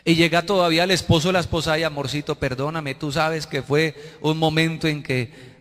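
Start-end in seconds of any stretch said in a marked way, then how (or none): 1.7-5.6 mock sweet apology. Spouse pleading for forgiveness, acted.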